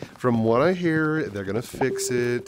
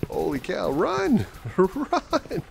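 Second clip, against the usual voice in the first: being chased; 5 semitones higher, much slower than usual. Real, not acted.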